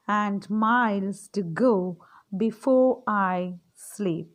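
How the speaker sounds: slow, measured verse reading; poem recitation. Acted. Teacher reciting Robert Frost's poem for her little ones, slow recitation. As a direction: recite line by line, drawing out the phrase endings.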